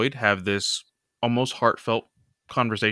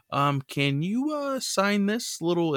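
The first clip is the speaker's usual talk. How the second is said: shy fan request; 11 semitones higher than usual. Retold or imitated. Floyd asking for autograph.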